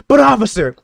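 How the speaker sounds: high, loud, hammed-up wail; mock raging scream. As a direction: scream it like a grieving fan in hysterics. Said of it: "you're screaming, you're raging".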